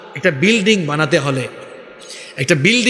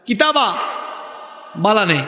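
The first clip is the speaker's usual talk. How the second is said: higher-pitched Sylheti greeting, imitated; Sylheti dialect; 4 semitones higher, 3 dB quieter than usual. Shown as a demonstration. Preacher repeats the Sylhet greeting for listeners, Sylheti dialect. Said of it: "আবার সিলেটে গেলে আপনাকে খুব সুন্দর বলবে".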